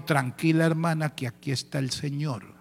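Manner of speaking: leader calming the screaming mother; calm reassurance. Retold or imitated. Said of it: "con toda esa calma del mundo".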